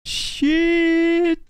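sudden high, loud shout of shock; real gasp of surprise; shocked outburst. Real, not acted. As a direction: blurt it out, caught off guard. Reacting to button press.

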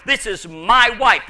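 "my" leaned on in "my wife"; stress on my. Shown as a demonstration. Preacher showing how personal the word is, stressed "my". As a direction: press the word "my" to claim her. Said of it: "uses the word my".

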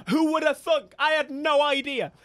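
high, loud mock astonishment; mock surprise. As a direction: exclaim it in exaggerated disbelief. Mock surprise at unlocking the car.

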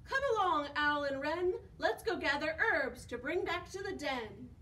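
raven voice. Acted. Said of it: "Raven says".

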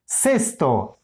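cesto with weight on the first syllable, ces-; stress on CES. Shown as a demonstration. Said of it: "acento en ces". (acento marcado en la primera sílaba de cesto)

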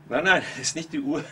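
chuckling as he says no; real laugh breaking into the no; laughing denial. Real, not acted. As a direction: laugh it off, amused. Amused denial of watchdog idea.

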